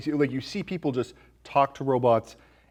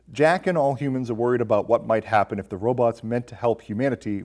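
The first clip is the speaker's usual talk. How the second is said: reading a review aloud; 4 dB louder than usual. Shown as a demonstration. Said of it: "He says".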